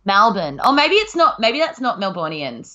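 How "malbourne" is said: "Melbourne" repeated as "Malbun"; Melbournian "Melbourne". Shown as a demonstration. Confirming the odd sound for her co-host, "Malbun". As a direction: repeat "Melbourne" with an open a up front. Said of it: "Melbournians say Melbourne".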